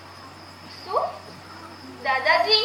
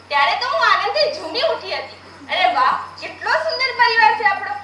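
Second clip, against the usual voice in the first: laughing with joy. Acted. Unborn girl delights in family.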